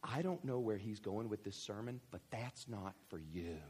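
lightly voiced protective parent, soft and low; hushed aside of a mock-worried parent. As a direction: imitate a parent quietly shielding a teenager. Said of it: "covering their ears going".

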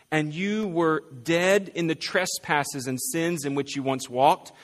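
measured, solemn Bible reading; scripture reading. Acted. Reads Ephesians aloud to congregation.

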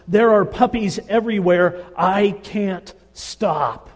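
a desperate rush of explanation with each I can't stop slowed down; urgent confession. Acted. Wife explains her puppy buying to the counselor, high and urgent.

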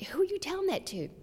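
high, fast whisper; wife whispering to husband during his call, fast; whispered question. Retold or imitated. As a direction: hiss it so he won't hear. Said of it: "I'm going".

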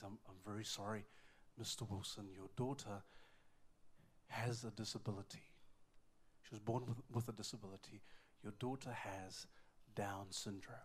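low, soft, halting delivery of bad news; grave doctor. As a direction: voice a doctor reluctantly breaking a diagnosis. Doctor giving the diagnosis.

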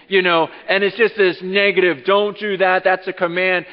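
loud, high preaching voice, driving hard; full-force preaching. Acted. Preacher to congregation, loud full-force preaching.

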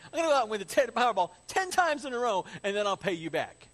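fast, high, loud vow; hammed-up rush of big promises; mock desperate promise. Debtor promising king Powerball winnings, loud and hurried.

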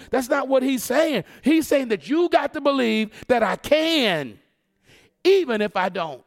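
impassioned sermon correction; forceful preaching. Real, not acted. Preacher correcting the congregation's idea of God, forceful preaching. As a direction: drive the point home to the congregation.

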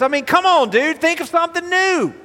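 high-pitched incredulous scoff; mock exasperation. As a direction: scold a hopelessly unoriginal opponent. Mocks the enemy's unoriginal lies.

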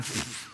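soft puffed snicker; imitated scornful laugh. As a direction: mimic kids snorting dismissively. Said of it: "they're just kinda laughing like".

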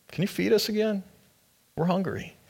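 a lightly played whiny crowd begging; mock hungry crowd. Crowd begging Jesus for food.

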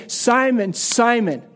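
mildly stern, drawn-out name call; reproving. Retold or imitated. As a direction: scold lightly by name. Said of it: "almost a voice of disapproval or scorn or reproof".

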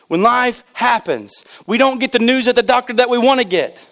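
emphatic pulpit proclamation; impassioned preaching. Real, not acted. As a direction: preach it out with rising fervor. Preaches with force.

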